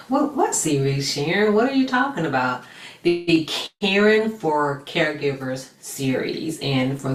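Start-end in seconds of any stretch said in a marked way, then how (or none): 0.1-2.6 quick, higher-pitched questioning; mock puzzlement, rattled off quickly; puzzled listener. Viewer questioning Sharon about the series, puzzled. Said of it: "And you're like".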